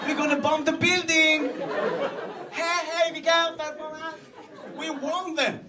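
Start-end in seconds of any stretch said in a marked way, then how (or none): 0.1-4.2 sing-song sweet warning to the enemy; mock polite warning. Israeli army politely warning the enemy, sing-song sweet. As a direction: coo a gentle heads-up before the bomb.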